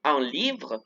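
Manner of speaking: "livre" with a clearly buzzed V; pressed-lip V. Shown as a demonstration. Teacher reminds students of French V, buzzed in "livre". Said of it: "la V apretando los labios".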